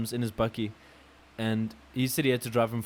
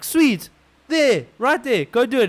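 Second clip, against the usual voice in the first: high, loud impatient yell; exasperated shout; 11 semitones higher, 8 dB louder, slower than usual. Retold or imitated. Pointing the buyer to the ATM, shouting. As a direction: bark at him to go.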